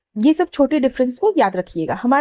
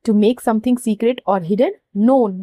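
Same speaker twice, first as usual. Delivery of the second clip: slower dictation; much slower than usual. Shown as a demonstration. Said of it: "यहाँ पे underline".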